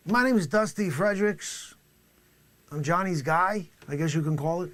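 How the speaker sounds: high, loud brash drug dealer; shouty comic dealer character; loud hammy dealer. Acted. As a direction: play the swaggering dealer big. Witness character voice.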